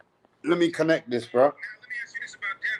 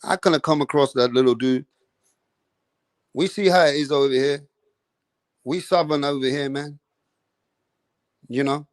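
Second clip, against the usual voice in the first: laid-back imitation of a Southern American fighter; Southern country accent; 5 semitones lower than usual. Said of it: "that country kind of a fucking accent".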